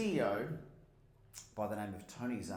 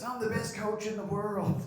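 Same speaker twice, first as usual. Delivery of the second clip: booming Steve impression; 11 semitones higher, 6 dB louder than usual. Steve declaring himself the best coach, booming.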